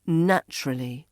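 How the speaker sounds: "Naturally" as NATCH-ruh-lee; reduced form. Shown as a demonstration. Teacher repeats the shortened word, "Naturally" as NATCH-ruh-lee. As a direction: weaken the end of "Naturally". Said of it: "becomes naturally".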